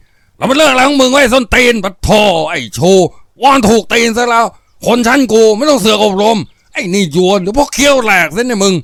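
high, loud furious roar; exploding in rage. Acted. Thug Jan exploding in rage at Chu for lecturing him. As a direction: blow up at him, cursing. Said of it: "ระเบิดโมโหร้ายใส่ผู้เตือนสติทันที".

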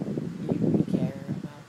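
raspy, worn-out voice; hoarse voice. Real, not acted. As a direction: voice rough from shouting. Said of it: "Why am I talking like this?".

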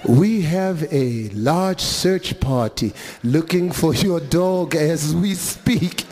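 lightly voiced calm clerk, slow; a hint of an unbothered clerk. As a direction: ask it slow and patient.

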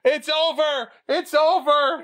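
high, loud stunned cry; shocked laughter. Real, not acted. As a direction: shout in disbelief, high. Shocked at match ending.

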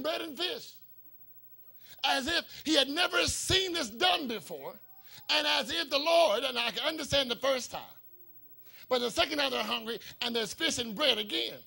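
emphatic, driving preacher delivery; preaching. Acted. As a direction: preach it out with rising force. Preaches at full force.

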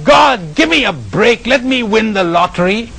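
high-pitched mock yell at God; frustrated yell. Old man fed up, yelling at God, mock frustrated. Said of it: "in sheer frustration he yelled".

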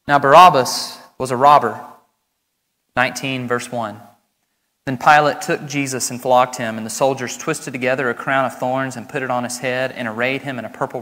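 measured, solemn Bible reading; scripture reading. Acted. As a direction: read the passage aloud to the congregation.

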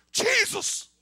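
high, loud plea for mercy; drawn-out pleading shout; crying out loudly. Acted. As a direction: call out to Jesus from afar, desperate. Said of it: "they called in a loud voice".

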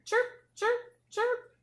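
very high, loud chirping; high bird chirp. Pretend. Animal sound in picture book.

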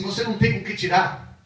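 high, pointed retort; Samaritan woman's jab. Acted. Preacher voicing the woman's jab, high. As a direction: poke at him with it. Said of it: "quando ela fala assim".

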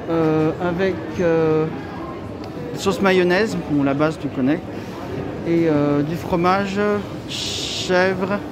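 muffled by cloth mask; speaking behind mask; through a face mask. Real, not acted. Seen 1: White cloth mask covers mouth and nose throughout; reference frames unmasked.

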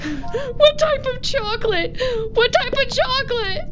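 slow, high, wary ask; suspicious question. Real, not acted. Asking about the chocolate eggs, slow suspicious question. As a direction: drag it out suspiciously.

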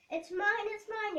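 high, loud spoiled yell; mock yell of a spoiled princess. A narrator's reading. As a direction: shout it like a spoiled child claiming a toy. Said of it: "yelled Princess Pansy".

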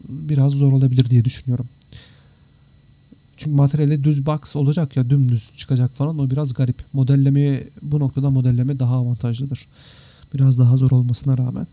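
ordinary talk

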